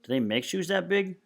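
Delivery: rising high, mocking disbelief; smirking disbelief. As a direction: sneer at the huge shoe size. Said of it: "she's got a little smirk".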